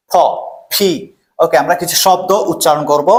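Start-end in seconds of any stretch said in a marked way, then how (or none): 0.1-0.9 "ফ, ফি" each opened with a puff of air; aspirated P drill. Shown as a demonstration. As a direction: model the aspirated p in "ফ, ফি". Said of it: "এটা উচ্চারণ হবে ফি".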